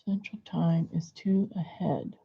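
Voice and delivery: soft whispered aside; whispering. Real, not acted. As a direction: breathe it to yourself. Whispered aside about time zones.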